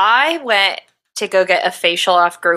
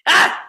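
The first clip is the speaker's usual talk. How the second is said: retold pained yelp. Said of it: "was like".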